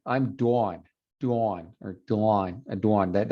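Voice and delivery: "Dawn" repeated with a rounded "aw". Shown as a demonstration. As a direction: hold the "aw" in "Dawn". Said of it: "that vowel right there".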